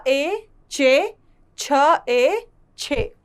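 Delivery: letter, then ए, then the blend with an "ay" sound; e vowel drill. Shown as a demonstration. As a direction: recite each syllable slowly and clearly, holding the ए. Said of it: "इसका उच्चारण भी ए". (ए की मात्रा का उच्चारण)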